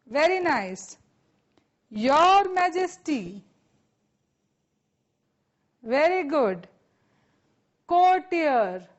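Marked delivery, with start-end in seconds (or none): 1.9-3.4 slow, drawn-out call for repeating; loud model phrase. Shown as a demonstration. Teacher leading students in repetition, called out slowly. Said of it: "મોટેથી બોલવાનું છે". 7.9-8.9 projected, stretched word for repeating; loud model word. Shown as a demonstration. Teacher leading students in loud repetition, called out. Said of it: "મોટેથી બોલવાનું છે".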